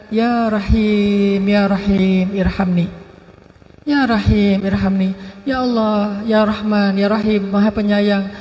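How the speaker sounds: rengekan pelan penuh harap, diucapkan lambat; merengek memohon. Acted. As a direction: memelas seperti nenek yang terus memohon kepada Allah. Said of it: "Ilhah itu artinya merengek". (nenek merengek kepada Allah, memelas pelan)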